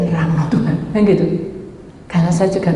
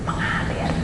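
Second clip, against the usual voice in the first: whispered divine answer; 9 dB quieter than usual. Retold or imitated. God's whispered answer again.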